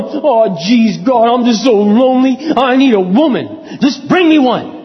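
lightly whiny lonely Adam; a hint of a sulky complaint to God; Adam moping in the garden, mildly whining to God; mock moping Adam. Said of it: "moping around the garden going".

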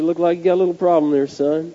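lightly imitated Southern patrolman; quick, casual hint of a Southern accent. Patrolman spotting the driver's little problem, light Southern accent. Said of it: "in his southern accent".

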